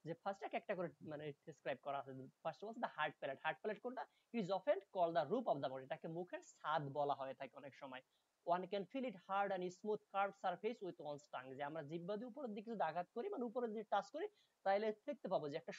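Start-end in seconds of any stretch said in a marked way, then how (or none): 4.3-5.8 slow, careful English text reading; slow reading aloud. Shown as a demonstration. Reads English text slowly. 8.5-11.5 slow, careful English text reading; slow reading aloud. Shown as a demonstration. Reads English text slowly.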